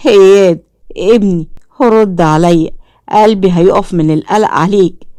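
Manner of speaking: father calling his lost son in panic; terrified. Acted. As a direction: call out to the missing child in fear. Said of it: "فقال عامر برعب".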